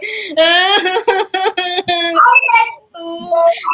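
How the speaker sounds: long exaggerated mock wail; pretend crying. Shown as a demonstration. Teacher leads pupil in crying game, pretend sobbing. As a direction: put on a drawn-out boo-hoo. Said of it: "Let's cry".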